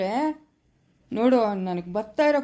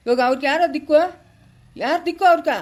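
angry outburst; 3 semitones higher, 5 dB louder than usual. Acted. Heated family quarrel.

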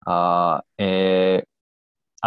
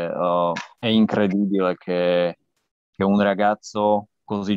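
halting Italian with a Slovak accent; non-native Italian, Slovak accent. Real, not acted. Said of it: "mio italiano, eh, è lontano dal perfetto".

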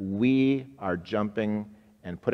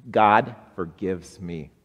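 congregation response; 5 dB louder, slower than usual. Shown as a demonstration. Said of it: "Say that with me".

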